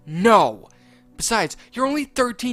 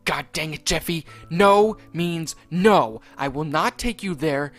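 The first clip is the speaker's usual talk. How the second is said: Mario snapping; 3 semitones higher, 8 dB louder than usual. Acted. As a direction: bellow the grounding, dragging it out. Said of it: "Mario yelled".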